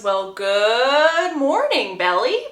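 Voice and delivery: very drawn-out, swooping mock greeting; pointed greeting. Boy catching her leaving his brother's room, pointedly drawn out. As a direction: stretch the greeting out with knowing sarcasm.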